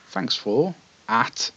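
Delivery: lightly voiced old man, slowly; a hint of a feeble old fellow. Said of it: "wiry old man".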